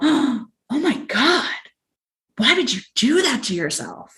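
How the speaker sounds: mock appalled, aghast, high, horrified, shocked tone. Retelling how people reacted when they found out: imitating horrified shock. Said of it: "in exactly that tone of voice".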